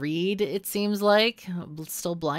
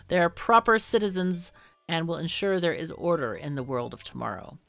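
smooth official voice; 2 semitones higher than usual. Acted. Reads propaganda minister dialogue.

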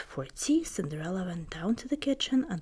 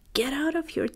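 wicked stepmother crying out; 8 semitones higher than usual. Acted. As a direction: scold them like a stern stepmother. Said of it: "stepmother cried".

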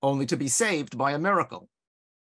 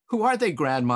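put-on a touch of eager childish excitement, a bit louder; excited child; 5 dB louder than usual. Young boy asking grandma about the old photo, excited. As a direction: ask it like a boy thrilled by his find. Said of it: "I said, excited by my discovery".

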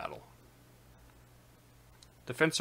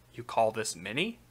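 scoffing, rising on many; mock the number as too small; scoffing question. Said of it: "I turned and shot back".

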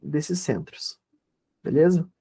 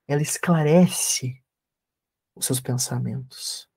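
guided meditation. Acted. (voz calma de meditação guiada)

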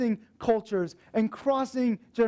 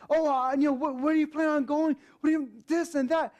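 imitating the eager TA, pitched higher; eager, pitched-up questions to a new friend; excited questions; 5 semitones higher, faster than usual. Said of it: "And he got so excited".

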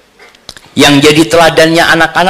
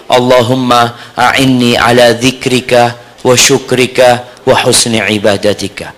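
prayer recitation. Shown as a demonstration. Recites Arabic prayer for listeners.

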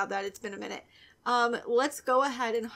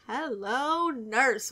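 cartoon catchphrase; much slower than usual. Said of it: "What was that from?".

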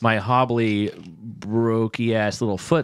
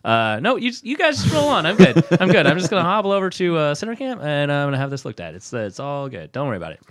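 high, rushed brushing-off, easing down at the end; acted embarrassment; 5 semitones higher, faster than usual. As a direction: wave everyone away quickly to hide your embarrassment. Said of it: "And I was embarrassed".

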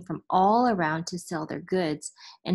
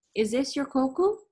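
mat vendor; 6 semitones higher than usual. A narrator's reading. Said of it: "the mat vendor asked".

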